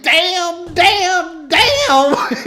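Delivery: high, far-off De Niro imitation, half sobbing; mock crying De Niro. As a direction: play De Niro grieving in a phone booth.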